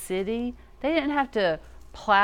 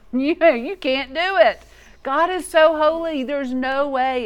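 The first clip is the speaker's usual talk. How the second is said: Joshua's blunt no; 6 semitones higher, 7 dB louder than usual. Acted. Joshua bluntly refusing the people.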